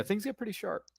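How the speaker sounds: high, quick, loud playful tease; teasing emphasis. Real, not acted. Host teasing about sharp objects in the book, playfully loud. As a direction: ham up the double meaning.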